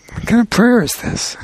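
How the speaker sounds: lightly voiced custodian, wondering aloud; puzzled custodian. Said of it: "the custodian is like".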